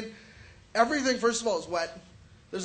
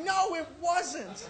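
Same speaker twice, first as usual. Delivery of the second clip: flat denial; 8 semitones higher, much slower than usual. Retold or imitated. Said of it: "I'm like".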